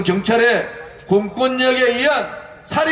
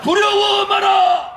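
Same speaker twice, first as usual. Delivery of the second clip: roaring rallying speech; 12 semitones higher, slower than usual. Real, not acted. Leader leads chanted slogan.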